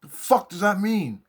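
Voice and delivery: high, loud insistent question; high and loud what-does-that-mean; urgent baffled question. Retold or imitated. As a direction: demand an answer. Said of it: "So I go".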